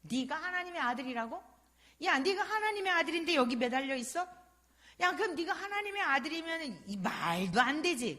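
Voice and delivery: a hint of a scornful criminal's jeer; mocking thief. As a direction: taunt the man on the cross. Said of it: "한편 강도는 조롱을 하잖아요".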